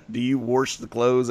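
"wash" said warsh with an r; okie accent. Shown as a demonstration. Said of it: "wash the clothes".

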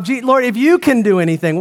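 lightly voiced father, hesitant plea; a hint of a weary father doubting Jesus. Father pleading with Jesus, lightly voiced and doubtful. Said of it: "why would he talk like this?".

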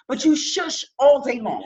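slow, laughing accusation. Real, not acted. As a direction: drag it out while laughing.

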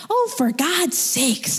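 high, drawn-out exasperated whine; imitating a shrill, exasperated friend. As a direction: stretch it out high and shrill, fed up. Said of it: "like, shrill voice in my head".

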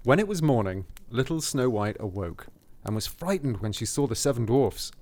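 measured fairy-tale reading; story narration. A narrator's reading. Reading the cottage description to a co-host, story narration. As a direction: read it aloud as a storybook.

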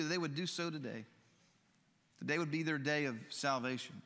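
earnest, gentle pastoral prayer; closing prayer. Acted. Pastor praying over the congregation at the close, earnest and gentle.

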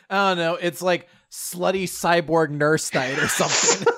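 giggling through a silly line; quoting through giggles; laughing through it. Retold or imitated. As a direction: laugh while you say it.

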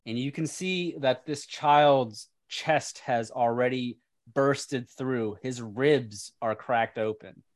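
slow, deliberate scene-setting with pauses; game master narration. Acted. Game master describing the corrupted child to players, ominous narration. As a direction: lean on key words, leaving pauses between phrases.

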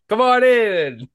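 high, loud Boston tough guy; Mark Wahlberg impression. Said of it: "your Mark Wa".

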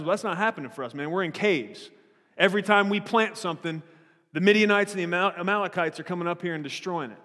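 sassy complaining. Retold or imitated. Preacher voicing Gideon griping about missing miracles, mock sassy. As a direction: retell Gideon mouthing off with a hint of attitude. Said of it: "got really too much of a sass mouth".

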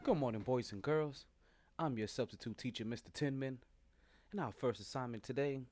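low, quiet teacher voice; a nervous sub calling on kids; flustered substitute teacher. Acted.

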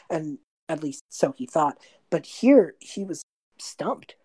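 hushed, dramatic storybook telling; narrator voice. A narrator's reading. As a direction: lean into the epic narration. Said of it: "take on a bit of a narrator voice".

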